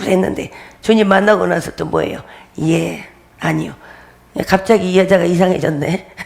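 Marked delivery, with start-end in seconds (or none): 2.6-3.7 slow, soft, submissive yes and no; meek answer. Shown as a demonstration. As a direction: give in meekly, slowly. (느리고 조용하게 순종하는 대답)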